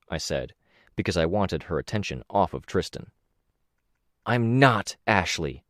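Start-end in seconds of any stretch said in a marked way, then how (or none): 4.2-5.6 slow, hard-edged correction. Acted. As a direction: bite off each word, cold. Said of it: "her voice hard".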